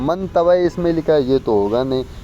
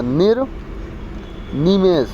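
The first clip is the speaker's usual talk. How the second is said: slow dictation; 2 semitones higher, much slower than usual. Shown as a demonstration. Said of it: "ऐसे लिखना पड़ेगा".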